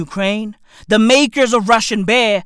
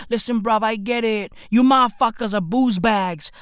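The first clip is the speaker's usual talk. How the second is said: ordinary delivery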